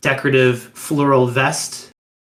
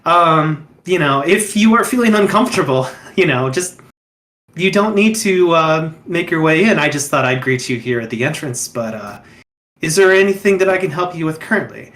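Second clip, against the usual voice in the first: smiling host. Acted. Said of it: "kind of smiles and laughs and says".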